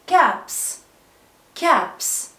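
"كابس" with a long voiceless s ending; final s sound. Shown as a demonstration. Teacher showing s after p, "كابس" ending in s. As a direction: model "كابس" as caps, ending in s. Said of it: "ودي غالبا بننطقها اس".

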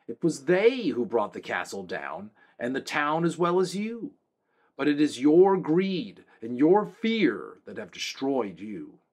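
lightly voiced scolding king. A narrator's reading. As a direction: scold the silly people from above.

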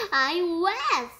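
high, loud, startled squeal. A narrator's reading. Cat waking up soaked, startled squeal. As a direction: squeal it in shock. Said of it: "said squealed".

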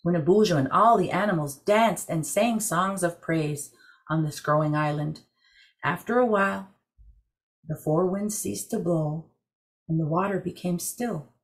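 calm storyteller reading a legend; story narration. A narrator's reading. Story narration over music.

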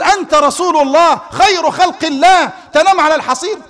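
weeping companion crying out to the Prophet; Omar's crying plea. Retold or imitated. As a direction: beg him in near tears, almost shouting. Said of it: "فعمر يبكي يقول".

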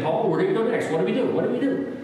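high-pitched, insistent questions; anxious team pressing their leader. Acted. Missionary organization turns to Paul for direction, urgently pleading. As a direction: voice climbing with each urgent question.

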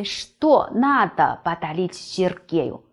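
"что" given full logical stress, not read lightly. Shown as a demonstration. Teacher demonstrates the sentence to students, stressing "что". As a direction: lean on "что" as a stressed object. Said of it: "它要重读".

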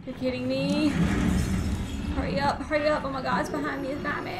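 frantic, fleeing in fear; being chased. Real, not acted. Chased by monster in game.

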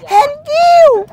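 very high, put-on flirty squeal; coquettish tart voice. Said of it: "bà làm giọng ngựa bà". (giọng ngựa, cao vút, õng ẹo)

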